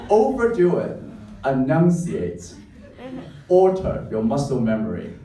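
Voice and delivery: hammed-up, loud and high; overdone. Shown as a demonstration. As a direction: exaggerate every syllable. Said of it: "exaggerated delivery demo".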